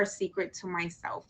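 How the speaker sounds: fast unvoiced whisper. Real, not acted. Host confiding to her viewers, whispering fast. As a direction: let the audience in on a secret.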